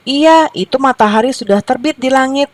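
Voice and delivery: high, insistent storybook voice; lightly voiced rooster. A narrator's reading. Rooster backs up the hens about sunrise, lightly insisting. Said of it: "ujar si jago".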